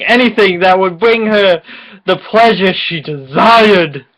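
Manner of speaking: overblown, breathy-free melodrama read; mock-serious dramatic narration. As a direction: ham up the smut like a soap opera. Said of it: "we're gonna do a dramatic reading".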